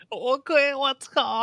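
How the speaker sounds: high, loud swearing through laughter; laughing exclaim. Real, not acted. Cohost laughs at the Italian remark, cursing high and loud. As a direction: burst out cursing mid-laugh.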